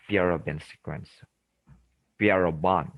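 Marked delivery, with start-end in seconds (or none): 2.2-2.9 French-style Pierrobon, ending in BON; alternative pronunciation. Shown as a demonstration. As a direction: say Pierrobon with the last syllable as "bon". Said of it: "sometimes they pronounce as Pierrobon".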